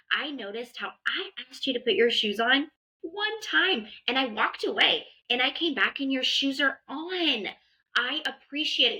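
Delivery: warm, encouraging parent praise; gentle approving parent voice; praising a child. Shown as a demonstration. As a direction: sound genuinely proud of the child. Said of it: "So saying things like".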